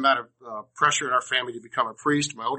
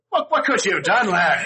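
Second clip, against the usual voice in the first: puzzled priest; 7 semitones higher, 5 dB louder than usual. Retold or imitated. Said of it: "And the priest says".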